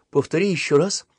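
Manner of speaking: high, disbelieving request; amazed. A narrator's reading. Boy wants the discount request repeated, amazed. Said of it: "изумился Татушкин".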